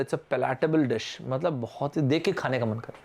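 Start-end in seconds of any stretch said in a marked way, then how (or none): 0.0-1.2 slow, deliberate model sentence; example sentence. Shown as a demonstration. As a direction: say it slowly, like a model answer. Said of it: "किसी food के लिए आपने बोला".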